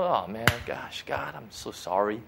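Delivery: half-hearted show of being sorry; mock apology. Acting out an insincere apology.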